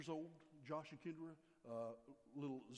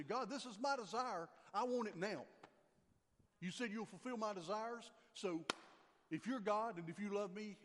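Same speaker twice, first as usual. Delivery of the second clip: louder, higher whiny demanding to God; a child insisting he gets it now; mock spoiled demand; 3 semitones higher, 4 dB louder than usual. Pastor mimics believers acting like spoiled brats, demanding. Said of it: "we look to God and say".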